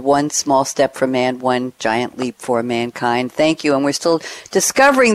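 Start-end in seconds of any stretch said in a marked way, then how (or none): 0.0-3.3 slow, soft, lower recital of a famous line; solemn, hushed tribute; reverent recital. Acted. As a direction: savour each word like history. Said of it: "happy to see a quote back to what actually happened".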